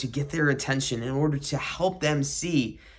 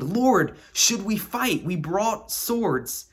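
urgent, raised exclamation; exclaiming; 4 semitones higher, much slower than usual. Acted. Disciples ask Jesus about fighting, exclaiming urgently. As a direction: call it out in mild alarm. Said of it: "they exclaimed".

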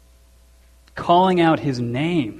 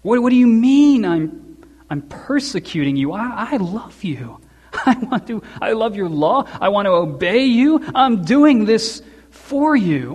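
higher, earnest protest as Saul; pleading protest; 4 semitones higher than usual. Retold or imitated. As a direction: protest your loyalty to God.

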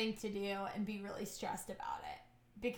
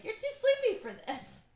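body as sleepy voice; 11 semitones higher, 3 dB louder than usual. Retold or imitated. Body's voice quoted.

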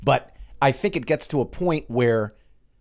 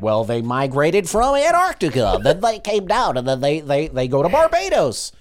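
lightly put-on man's voice; a hint of imitating his voice. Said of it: "I'm still doing his voice".

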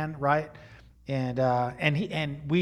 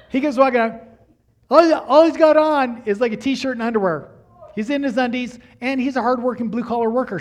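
1 excited storytelling; 8 semitones higher, 9 dB louder than usual. Real, not acted. Comic story climax to congregation.

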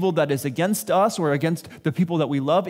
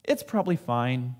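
weary resignation; 6 semitones lower, 5 dB quieter than usual. Retold or imitated. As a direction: sigh it away, worn out. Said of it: "my response is".

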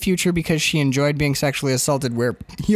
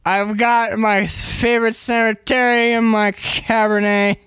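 put-on drunk screenwriter rant; 4 semitones higher than usual. Improvised drunk Jack divorce rant.

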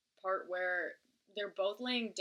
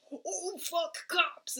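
mock startled; 9 semitones higher, much slower than usual. Startled driver.

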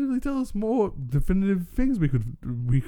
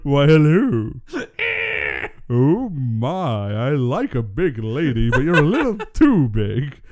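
sultry voice; slower than usual. Pretend. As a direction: play the sultry lady-killer. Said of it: "my sultry, sultry voice".

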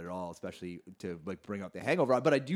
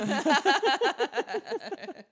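sly nasal snickering whisper; 4 dB louder than usual. Real, not acted. Laugh after joke.

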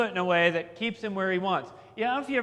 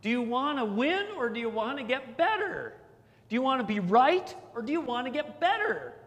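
relished quote; 5 semitones higher than usual. Retold or imitated. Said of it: "I love that line".

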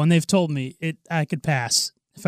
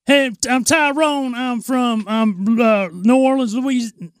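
higher, put-on Tyrone from New Orleans; hesitant caricature of a Southern Black man; African American impression; 6 semitones higher than usual. Friend introduces himself as Tyrone, hammed-up African American impression. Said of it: "do African American guy".

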